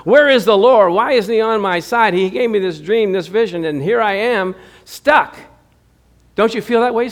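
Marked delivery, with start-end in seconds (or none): 0.1-5.4 mock complaining. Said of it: "be complaining".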